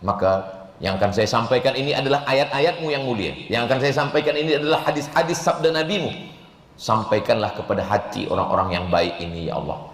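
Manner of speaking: low, measured supplication to God; prayer. Real, not acted. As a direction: pray humbly in a low, even voice. (berdoa dengan suara rendah)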